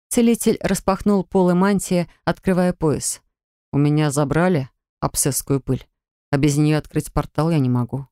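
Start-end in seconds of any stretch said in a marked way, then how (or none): 3.7-8.1 a lower, calm student voice; lightly voiced young man. Drafok explains to Sher why he can't open the portal, lower and calm. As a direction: explain gently, lower than the narration.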